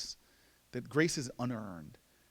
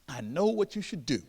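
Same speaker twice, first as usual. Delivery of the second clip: mock great wisdom. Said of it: "of the greatest wisdom in the world".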